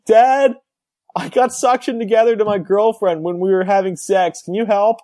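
put-on high, pleading young son; whiny son voice. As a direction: beg dad for help, high-pitched. Caller voiced in joke.

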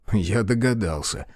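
plain reading voice

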